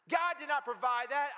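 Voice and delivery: emphatic, hammed-up correction; triumphant gotcha. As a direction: imitate a neighbour crowing over a catch. Neighbor gloats at the woman.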